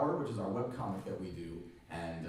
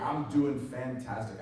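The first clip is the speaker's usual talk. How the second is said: hoarse, voice nearly gone; 3 semitones higher, 3 dB louder than usual. Real, not acted. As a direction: talk through a hoarse, worn-out throat. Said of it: "I have no voice".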